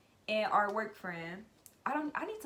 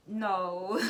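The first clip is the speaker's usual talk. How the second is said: laughing no; 5 dB louder than usual. Real, not acted. Laughing refusal.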